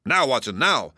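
urgent, a touch frenzied; eager urgent cry. Acted. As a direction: push Watson to hurry. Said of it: "cried Holmes with frenzied eagerness".

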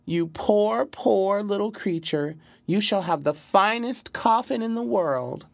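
very high, grieving cry; wailing. A narrator's reading. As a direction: sob it out way up high. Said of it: "she wailed".

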